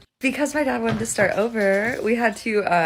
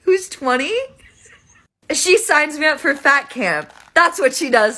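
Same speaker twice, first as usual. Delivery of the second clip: indignant rant; 5 semitones higher than usual. Real, not acted. Indignant retelling of stepmom.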